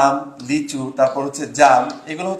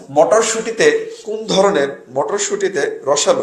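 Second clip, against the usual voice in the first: slow drawn-out question; much slower than usual. Shown as a demonstration. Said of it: "teacher quizzing class".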